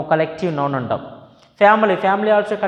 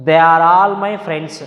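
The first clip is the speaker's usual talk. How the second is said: slow dictation; 4 dB louder, much slower than usual. Shown as a demonstration. Teacher reads example sentence aloud.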